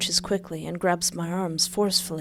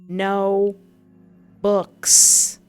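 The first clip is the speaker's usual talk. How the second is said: blunt; 8 dB louder than usual. Acted. Blunt loud reply.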